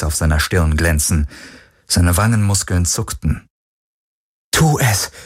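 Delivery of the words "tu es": moderately raised inner urging; will yourself to act, pitched up; urgent thought. A narrator's reading. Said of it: "dachte sie".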